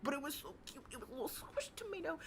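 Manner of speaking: squeaky cute-voice gush; gushing over cuteness. Real, not acted. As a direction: coo like it's adorable.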